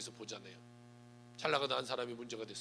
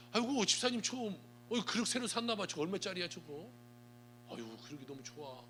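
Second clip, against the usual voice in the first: gushing nosy visitor; 3 semitones higher than usual. Retold or imitated. Nosy visitor gushing over dishes.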